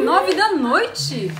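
slow, drawn-out incredulous question; acted disbelief. Driver reacting to a hitchhiker at night, incredulous. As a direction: replay the disbelief, stretching the words.

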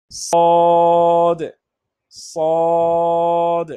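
সদ with a thick heavy s; Arabic letter saad. Shown as a demonstration. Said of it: "উচ্চারণটা একটু মোটা হবে".

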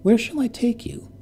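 high, insistent question; rising worry toward the old woman. Acted. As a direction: let the voice climb with worry. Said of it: "her voice rising".

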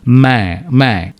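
మే with the vowel sent through the nose; slow nasal మే, held a touch; మే ముక్కుతో పలకాలి. Shown as a demonstration. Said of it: "మే ముక్కుతో వస్తుంది".

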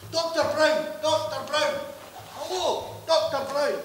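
loud call up to a window; shouting a name to get attention. Acted. Calling up to the doctor.

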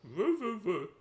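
robot voice on the end of an inhale; old speech synthesizer. Pretend. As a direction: talk like a clunky old text-to-speech robot. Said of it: "Do the end of an inhale voice".

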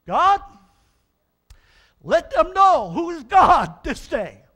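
loud, slow, high plea to heaven; Elijah's loud slow prayer to God; crying out to God. Acted. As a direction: call down fire with everything.

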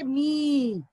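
मी with a long, held ee; long ee sound. Shown as a demonstration. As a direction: draw out the vowel in मी. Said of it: "मात्रा लगा के पढ़ेंगे". (मी को लंबी ई से खींचकर)

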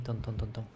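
heartbeat sound. Shown as a demonstration. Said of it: "yo tengo el corazoncino ahí".

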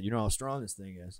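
lightly voiced dad from a childhood memory; a hint of a daddy voice; put-on dad voice. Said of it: "I don't know why I'm making your voice like that".

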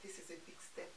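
mildly choked-up aside, as if the moment just hit; emotional hush. Retold or imitated. Mom recalling her child's first school day, hushed and emotional. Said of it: "I was so emotional".

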